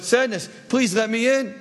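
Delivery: high-pitched, lightly acted plea; pleading. Love begs Sadness to let her aboard, pleading. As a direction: beg with the voice lifted.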